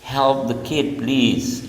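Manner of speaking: polite request, said slowly. Shown as a demonstration. Teacher showing a softened command slowly. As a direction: ask nicely, taking your time.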